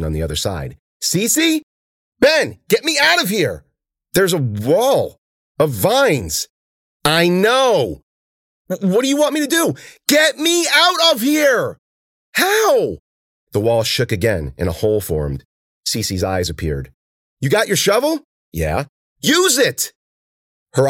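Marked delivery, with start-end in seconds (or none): 1.0-13.0 high, loud, urgent back-and-forth yells; panicked shouting. A narrator's reading. Ben and Cece shouting through the vine wall. 17.4-19.9 high, loud, urgent back-and-forth yells; panicked shouting. A narrator's reading. Ben and Cece shouting through the vine wall.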